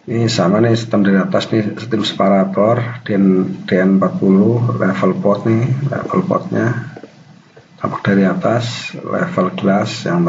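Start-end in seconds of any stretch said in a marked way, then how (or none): 0.1-6.9 talking around a cigarette; cigarette in mouth. Real, not acted. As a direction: speak with a cigarette between lips. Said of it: "sambil ngerokok saya nih".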